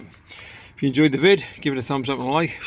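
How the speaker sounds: breathless outro, out of breath. Real, not acted. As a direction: talk out of breath after scrubbing. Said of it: "I'm out of breath".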